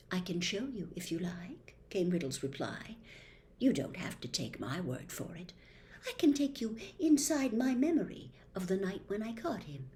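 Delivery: hushed, confiding storyteller, lightly voiced; Tom Riddle. Riddle confides the Chamber's history to Harry, hushed.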